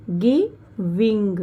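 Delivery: गिविंग slow, with a falling end; slow model word. Shown as a demonstration. Teacher modelling the word for the class, slow. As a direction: draw out गिविंग slowly and let it fall. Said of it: "ING लगा ना तो बिंग".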